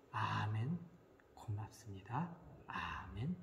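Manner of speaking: hushed, low near-whisper; imitated gentle, whispery thanks; meek acceptance. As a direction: murmur it softly and slowly, accepting without protest. Mother meekly accepting instead of anger.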